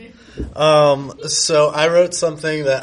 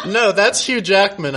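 protesting; 6 semitones higher than usual. Acted. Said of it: "I protested".

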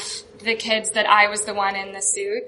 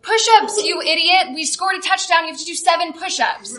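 mock screaming coach; 6 semitones higher than usual. Cheerleader screaming orders at the mascot, high mock yell. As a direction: shout it like an angry cheer coach. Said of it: "she starts screaming at me".

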